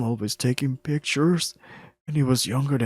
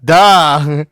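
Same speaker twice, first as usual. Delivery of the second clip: bitter laugh; 10 dB louder than usual. Acted. Deer mocking itself bitterly.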